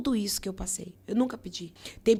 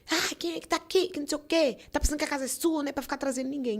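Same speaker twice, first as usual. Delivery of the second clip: father cursing; 6 semitones higher, faster than usual. Retold or imitated. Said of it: "ele xingava".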